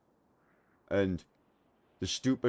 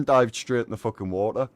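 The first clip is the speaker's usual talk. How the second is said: laughing; 2 semitones higher, 8 dB louder than usual. Real, not acted. Still laughing after the punchline.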